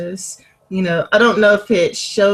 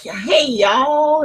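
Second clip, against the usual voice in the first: Southern greeting; 5 semitones higher than usual. Retold or imitated. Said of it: "professional people are like".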